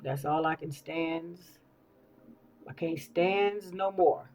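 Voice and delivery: a hint of a cartoon sailor, slow; lightly voiced sailor catchphrase, drawn out; slow, mildly put-on sailor quote; Popeye. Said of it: "like Popeye".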